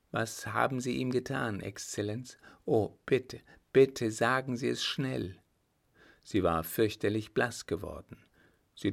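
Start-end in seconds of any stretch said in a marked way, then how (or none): 0.1-5.4 put-on higher, pleading young lady; worried young fiancée. Fiancée begging the marshal for news, anxious pleading. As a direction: beg anxiously, in a lightly acted voice.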